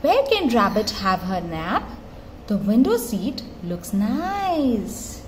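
gentle storybook read-aloud; reading to a toddler. Acted. Mother reading a flap book to her toddler, gently.

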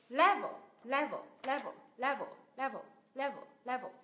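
"Level" strong on LE, weak ending; stress on first syllable. Shown as a demonstration. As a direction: drop away after the start of "Level". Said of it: "Nhấn vào tiếp thứ nhất".

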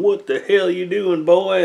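high, loud hammed-up redneck yell; stereotypical Southern sheriff. Sheriff tumbling in the back seat, mock Southern holler. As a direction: holler it like a cartoon hick sheriff. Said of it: "talking in the stereotypical voice".

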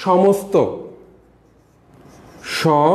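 সমস্ত with a crisp dental s before t; careful pronunciation. Shown as a demonstration. Teacher models সমস্ত for students, carefully. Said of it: "এটা উচ্চারণ হচ্ছে".

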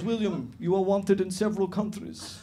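lightly voiced Eastern European policeman; Eastern European accent. Fake cop accusing the stag, light Eastern European accent. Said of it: "this is my Eastern European accent".

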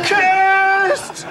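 high, loud dramatic cry; dramatic headline shout. Pretend. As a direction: bellow it like a doom headline.

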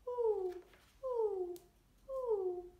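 high, loud hooting owl; long high owl hoots. A narrator's reading. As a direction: hoot down from the perch.

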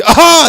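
loud high "aaha" throat-clear; mock throat-clearing. Old uncle clearing his throat to open the car window, loud hawk.

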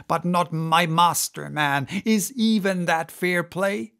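intense, brooding sea captain; obsessed captain. Acted. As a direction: rant with growing obsession. Ahab's tirade continues.

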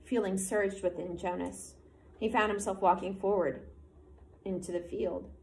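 even, measured read-aloud of a novel; story narration. A narrator's reading. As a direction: read the chapter to the class. Teacher reads novel aloud to class.

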